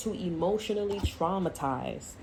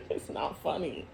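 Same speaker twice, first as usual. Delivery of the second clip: helpless laughter breaking into the words; real laughter. Real, not acted. Reader protesting her own joke, laughing hard. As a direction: try to protest through real giggles. Laughing while denying it is funny.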